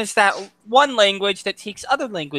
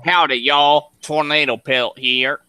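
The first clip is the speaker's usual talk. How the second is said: hearty put-on Southern American greeting; Southern American accent; 2 semitones lower than usual. Shown as a demonstration. Taking a turn at the accent challenge, Southern American accent. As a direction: introduce yourself with a Southern twang. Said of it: "Hey, Tornado, your turn".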